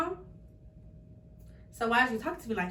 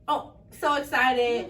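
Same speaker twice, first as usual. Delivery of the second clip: slow, stretched and louder mock excitement; drawn-out so excited; 5 dB louder, much slower than usual. Sister retelling family's visit, slow mock excitement. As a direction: drag out the excitement teasingly.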